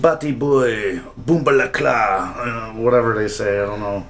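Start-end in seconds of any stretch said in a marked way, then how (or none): 0.0-2.3 lightly imitated Jamaican accent; a hint of Jamaican patois, slowed down. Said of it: "likes to speak in, um, Jamaican accent".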